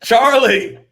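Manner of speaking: high, loud laughing burst. Real, not acted. Host laughing at the wah-wah joke. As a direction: laugh through the punchline. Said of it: "laughing at Charlie Brown joke".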